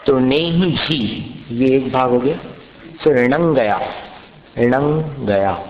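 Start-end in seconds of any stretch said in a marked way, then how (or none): 4.6-5.6 णंग गया drawn out, the ng like in अंग; very slow णंग गया, ng ringing; slow ang sound. Shown as a demonstration. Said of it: "अनुस्वार का उच्चारण कैसा करना? अंग जैसा".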